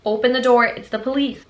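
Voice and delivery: police call-out. Retold or imitated. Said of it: "banging on the door and saying".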